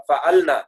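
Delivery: فعلنا with the ل held without a vowel; teacher modelling فعلنا with a silent-vowel ل; vowelless lam. Shown as a demonstration. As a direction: close the ل straight into "na" in فعلنا. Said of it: "لام ساکن ہو جاتا تھا".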